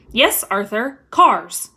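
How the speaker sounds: clipped, loud final "cars"; angry wife. Acted. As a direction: land the word like an accusation. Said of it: "her eyes flashing".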